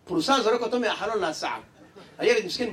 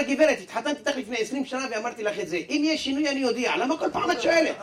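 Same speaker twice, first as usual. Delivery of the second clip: exasperated husband; 5 semitones higher than usual. Acted. Husband irritated by wife's question.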